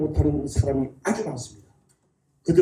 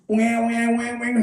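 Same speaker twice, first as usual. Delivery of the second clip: wailing siren noise made by voice; imitated ambulance siren; 3 semitones higher than usual. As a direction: mimic a repeating emergency siren. (구급차 사이렌 흉내)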